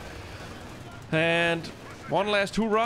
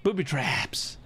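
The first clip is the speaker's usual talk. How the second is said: whispering; slower than usual. Real, not acted. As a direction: breathe it out unvoiced. Whispered aside.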